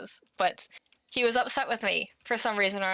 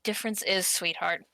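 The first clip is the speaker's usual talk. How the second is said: mock tough guy. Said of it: "so he said to me".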